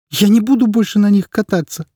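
put-on high, loud tearful child's protest; boy crying to his mother that he won't go back. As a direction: wail it through tears like a boy of seven. Boy refuses.

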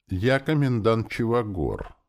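slow, weary announcement; tired. A narrator's reading. Elf introducing himself to revived soldier, tired. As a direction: stretch it out with mild weariness. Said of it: "устало сказал эльф".

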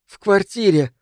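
испуганно, сбивчиво, с паузами; задыхаясь от страха, с паузами; panicked breathless whispers. Acted. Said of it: "сказала она в паузах, испуганно переводя дыхание". (испуганный прерывистый шёпот)

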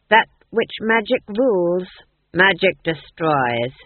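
a cold, gloating king's voice; the Duke's voice. Acted. The Duke taunting Granny, in a cold gloating voice. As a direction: lord it over the witch with icy confidence.

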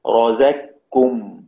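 slow رزقكم with a doubled ك replacing the ق; doubled kaf. Shown as a demonstration. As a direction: say رزقكم as "razak-kum". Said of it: "كاف مشددة".

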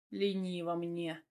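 low, slow male voice; lazy husband. A narrator's reading. Husband refusing to leave the floor, low and lazy.

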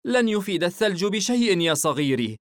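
tender motherly reassurance; smiling tenderness. A narrator's reading. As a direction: answer a child fondly with a smile. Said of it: "ابتسمت وهي تحتضن طفلها".

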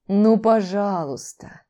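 slow, drawn-out coaxing purr; purring plea. A narrator's reading. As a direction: stretch it out like a begging pet. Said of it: "проурчал он". (мурлычущая мольба)

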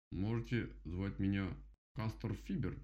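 slow, self-important; pompous beaver. Acted. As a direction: announce your grand name. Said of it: "важно проговорил зубастый".

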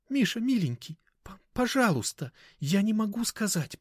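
high, tearful begging; tearful pleading. A narrator's reading. Anya begging Mishka not to ask, tearful. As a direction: plead through sobs. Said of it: "Аня всхлипнула".

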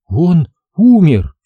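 slow, high, grief-laden; forcing it out. A narrator's reading. Mother finally telling her son of the death, anguished effort. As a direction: push out the last words painfully, drawn out. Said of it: "еле пересилила себя".

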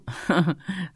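mocking chuckle; short chuckle. A narrator's reading. Thug behind laughs at the brave girl. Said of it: "хохотнул".

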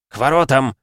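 loud, high choked command; tight-voiced cry of alarm; strangled urgent order. A narrator's reading. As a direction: send everyone off in alarm. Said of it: "сдавленным голосом проговорил он".

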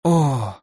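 стон. A narrator's reading. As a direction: let out a weary sigh-like moan. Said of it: "тихонько застонал гном". (протяжный усталый стон)

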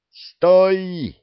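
loud, high command to stop; sharp shout. A narrator's reading. Alyosha shouts at the dragon to stop. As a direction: shout them to a halt. Alyosha stops them eating.

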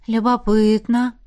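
slow, drawn-out curious word. Acted. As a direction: stretch the word slowly. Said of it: "протянула".

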